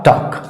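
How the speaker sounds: टॉक said softly as "tawk", no l; correct pronunciation. Shown as a demonstration. Teacher answering own question, soft clear टॉक. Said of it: "इसका सही उच्चारण क्या हो जाएगा".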